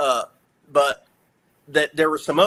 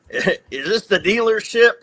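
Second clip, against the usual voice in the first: tentative phone question; 5 semitones higher, 3 dB louder than usual. Retold or imitated. First time asking on phone.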